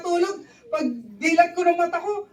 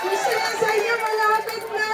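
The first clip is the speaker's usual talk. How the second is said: gleeful mentor impression; 6 semitones higher, slower than usual. Mimicking mentor's glee.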